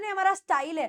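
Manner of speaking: "स्टाइल" said as "sta-eel"; common mispronunciation. Retold or imitated. Teacher quotes how many people say स्टाइल, mispronounced. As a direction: imitate learners putting ee in स्टाइल. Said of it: "कई लोग, हम लोग बोलते हैं".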